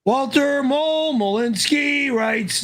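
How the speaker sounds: ordinary talk, nothing marked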